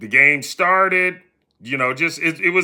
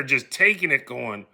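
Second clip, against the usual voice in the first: normal talking voice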